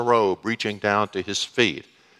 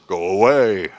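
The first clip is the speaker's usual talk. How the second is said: put-on dismissive girlfriend; 4 semitones lower, 4 dB louder than usual. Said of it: "a girlfriend that I used to have".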